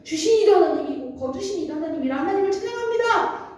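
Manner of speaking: high, sustained profession of praise; praising God. Acted. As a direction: proclaim it as the faithful Job. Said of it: "처음엔 하나님을".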